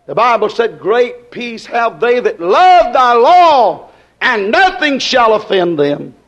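slow, emphatic pulpit exhortation; steady revival sermon cadence; preaching. Acted. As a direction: proclaim scripture with stretched key words.

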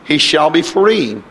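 preacher reciting solemn scripture; scripture reading. A narrator's reading. Reads scripture aloud.

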